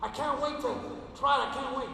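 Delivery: can hardly contain himself; lightly voiced excited CEO on the phone; excited boss. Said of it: "he was so excited".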